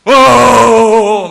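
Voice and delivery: long, high, roaring wail; drawn-out imitation of howling grief; imitated loud wailing. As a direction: bellow out a grieving father's sob. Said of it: "막 울더라고요".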